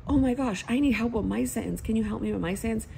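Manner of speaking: put-on high, loud eager kid voice; excited child. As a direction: play the kid begging for help, bright and quick. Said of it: "I'm like".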